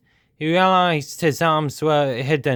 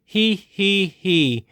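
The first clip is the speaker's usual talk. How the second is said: wheezing giggle; 5 semitones higher, much slower than usual. A narrator's reading. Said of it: "wheezed the dragon".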